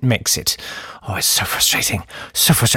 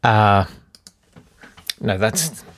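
The host. Acted. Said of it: "That's Lovely, with me, the host".

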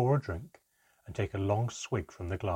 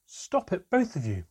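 higher, louder cry to stop a fight; cried out; 8 semitones higher, 5 dB louder than usual. A narrator's reading. Mother stopping Handan and Manka fighting, loud cry. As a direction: break them apart with your voice. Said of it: "my mother cried".

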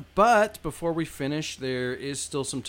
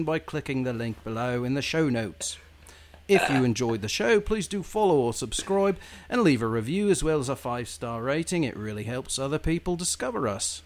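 put-on British accent outro read. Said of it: "That was genuinely really good".

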